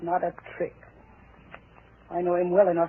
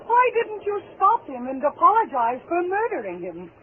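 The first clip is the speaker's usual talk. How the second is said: sarcastic mockery; 11 semitones higher, 5 dB louder, slower than usual. Wife mocking his ghost story.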